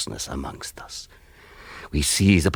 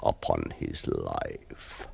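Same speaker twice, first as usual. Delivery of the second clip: hushed; 11 semitones lower, 8 dB quieter, slower than usual. Acted. Vampire savouring the kill.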